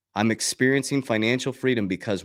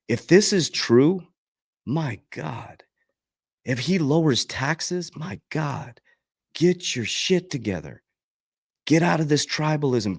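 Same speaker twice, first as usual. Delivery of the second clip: excited disbelief; 5 semitones higher, slower than usual. Real, not acted. Hyped about tax-free crypto.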